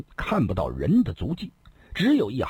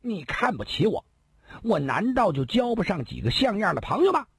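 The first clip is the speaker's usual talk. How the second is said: high indignant shout; 12 semitones higher than usual. A narrator's reading. Second brother yells back at the insulting elder brother, high indignant shout. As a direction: yell it, stung and offended. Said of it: "大叫地说道".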